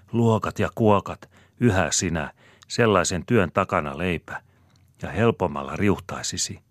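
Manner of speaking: high, loud pressing argument; heated urging. A narrator's reading. Wife argues urgently with her worried husband. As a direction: push him hard to do it.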